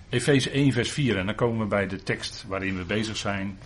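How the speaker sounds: ordinary talk, nothing marked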